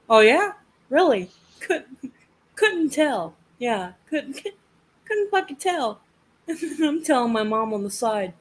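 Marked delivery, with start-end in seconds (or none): 0.1-6.0 sarcastic. Retold or imitated. Sarcastic reply to the obviously Canadian nurse.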